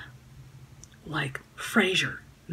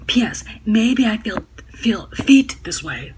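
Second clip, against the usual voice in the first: snarky hag voice; 4 semitones higher, 8 dB louder than usual. Retold or imitated. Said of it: "Snarky feminazi, hag voice".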